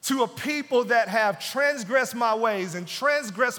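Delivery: loud, forceful divine rebuke; God loudly rebuking those who demand fairness; stern God. Acted. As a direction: thunder back the challenge. God answering the complainer.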